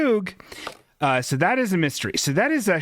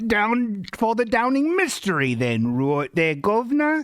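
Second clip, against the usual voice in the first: a light British detective voice, higher; a lightly voiced British gent announcing the mystery; hint of British accent; 5 semitones higher than usual. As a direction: play the jolly British sleuth, governor. Host slips into British detective.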